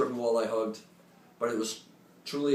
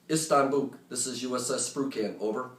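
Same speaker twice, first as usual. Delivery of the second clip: clear radio call. Retold or imitated. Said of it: "speak clearly and loudly into the handset".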